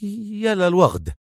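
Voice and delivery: high, drawn-out exclamation; tense and high-pitched; tense Magdy. A narrator's reading. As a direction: exclaim slowly with rising nerves. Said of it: "هتف مجدي في توتر".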